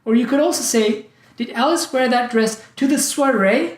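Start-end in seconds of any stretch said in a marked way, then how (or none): 1.4-3.6 "soiree" lifted at the end as a question; stress on "soiree". Shown as a demonstration. Teacher questions the occasion, stress on "soiree". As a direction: save the emphasis for "soiree", rising. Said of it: "wear it at the wedding".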